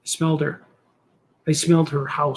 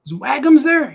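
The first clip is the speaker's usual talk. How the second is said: mock high voice; 10 semitones higher, 6 dB louder than usual.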